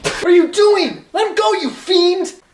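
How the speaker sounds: high, loud villain snarl; furious yelling. Acted. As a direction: roar at the hostage taker.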